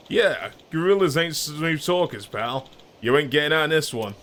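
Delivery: cocky older man, lightly voiced; a hint of a swaggering tough guy in his forties; Kaito voice. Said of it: "Kai-, Kaito voice".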